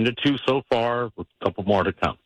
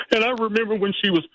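whimpering voice; 12 semitones higher than usual. Shown as a demonstration. Caller showing the host his wedding speech whimper, high and teary. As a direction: voice catching high on the memory. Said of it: "if you find that whimper coming on".

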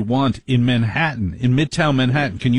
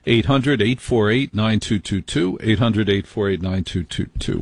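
announcer number read. Acted. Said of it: "host repeats phone number".

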